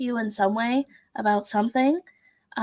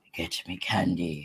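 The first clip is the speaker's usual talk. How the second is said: very deep, very low, hushed, soft demonic voice; 8 dB quieter than usual. Demanding candy from the other person, in a demon voice. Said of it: "I'd never used my demon voice".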